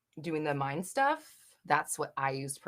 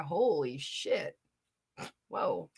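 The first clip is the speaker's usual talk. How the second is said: surprised; much slower than usual. Real, not acted. Stunned by clean mirror.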